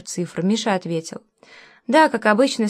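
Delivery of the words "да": slightly drawn out. A narrator's reading. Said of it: "слегка растягивая звук".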